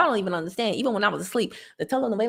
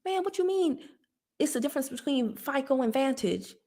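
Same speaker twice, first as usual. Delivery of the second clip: higher bewildered past self; higher, baffled younger self; 4 semitones higher, 5 dB quieter than usual. Retold or imitated. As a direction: sound lost and baffled. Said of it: "I was like".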